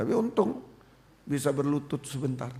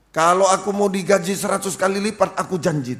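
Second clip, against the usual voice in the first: loud, high opening, easing off; re-enacted cried vow; 4 semitones higher, 7 dB louder than usual. Preacher re-enacts first vow to God, cried out loudly. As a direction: declare the vow to God with force. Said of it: "Apa yang saya teriak pertama?".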